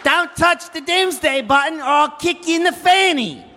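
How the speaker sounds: Aussie villain shouting threats; megalomaniac rant. Acted. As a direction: yell it in a mock Australian accent. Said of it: "you're not really sounding like a supervillain".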